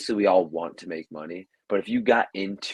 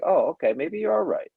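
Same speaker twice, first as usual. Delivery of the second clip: mock grudging approval; 10 semitones higher than usual. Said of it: "then I see, like".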